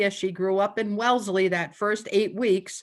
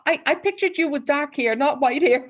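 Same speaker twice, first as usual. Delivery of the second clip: higher pitch, breaking into laughter; laughing retold quote; 7 semitones higher, 5 dB louder than usual. Guest retelling what her dog said about her, laughing.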